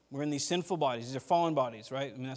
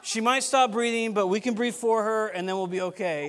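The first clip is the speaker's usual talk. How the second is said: joking aside; 6 semitones higher, 6 dB louder than usual. Retold or imitated. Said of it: "You almost wanna be like".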